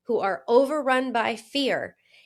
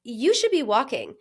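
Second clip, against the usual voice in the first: harsh self-critic; 2 semitones higher than usual. Retold or imitated. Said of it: "My default is to be like".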